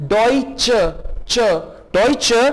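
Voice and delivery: Deutsche said slowly with a clear "che" ending, DOY-che; pronounce Deutsche. Shown as a demonstration. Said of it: "चे से pronounce करेंगे Deutsche". (Deutsche को "चे" के साथ साफ़ बोलें)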